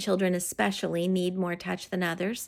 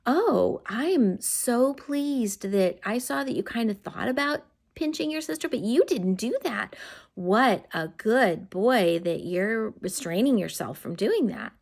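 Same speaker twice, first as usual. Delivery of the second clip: delighted praise; 2 semitones higher than usual. Shown as a demonstration. Parent praising son for not pinching his sister, delighted. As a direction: gush with pleasure at the child. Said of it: "you stop them and say".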